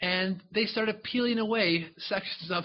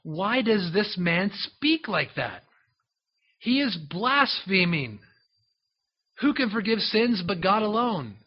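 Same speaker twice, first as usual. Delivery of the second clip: indignant scribes; 2 semitones higher, slower than usual. Acted. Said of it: "This is what they were thinking".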